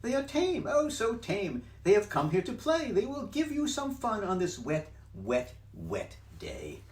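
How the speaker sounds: high, bouncy cheeky cat; cat's voice. Acted. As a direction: brush off the fish, playful. Cat defends Things.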